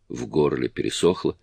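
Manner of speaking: ordinary delivery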